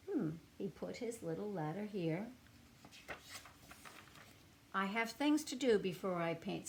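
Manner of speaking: gentle, expressive storybook reading; reading to children. A narrator's reading. Reading a picture book aloud to young children, storybook voice. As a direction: read it to little listeners with feeling.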